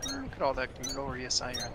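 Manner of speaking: light Irish leprechaun lilt; a hint of leprechaun Irish accent. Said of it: "I don't know why I sounded like a leprechaun".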